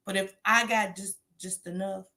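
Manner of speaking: ordinary talk, nothing marked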